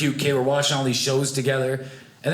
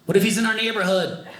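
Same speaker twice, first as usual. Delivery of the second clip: put-on scared child; 4 semitones higher than usual. Frightened child self to mom.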